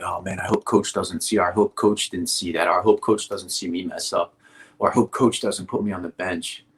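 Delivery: quiet, slightly low, beaten-down self-talk; low, soft demoralizing tone. Shown as a demonstration. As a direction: mutter it like you've already given up. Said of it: "Can you hear the tone that I'm speaking to myself in? ... a low, a soft, demoralizing tone".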